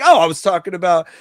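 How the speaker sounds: high, loud, hurried mock excuse; imagined excuse. Rival host scrambling for a name, mock hurried excuse. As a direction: blurt it as a mock cover-up.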